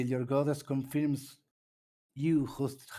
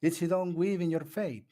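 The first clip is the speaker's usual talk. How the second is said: put-on girl voice; 4 semitones higher than usual. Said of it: "now you do the girl voice".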